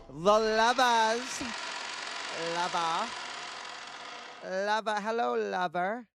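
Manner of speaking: slow, high, breathy seductive purr; breathy vintage purr. Pretend. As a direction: purr each word like an old-time siren. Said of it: "I should stop talking like that".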